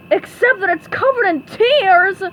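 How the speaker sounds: drip with sarcasm; sarcastic. Acted. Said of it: "answered sarcastically".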